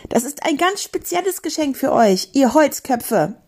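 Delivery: high taunting call. Acted. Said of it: "rief Julebuck".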